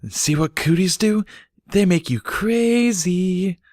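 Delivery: high, mock-secretive child voice; conspiratorial whisper. A narrator's reading. Filly telling a friend about cooties, mock conspiratorial. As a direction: share it like a playground secret. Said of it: "in a conspiratorial whisper".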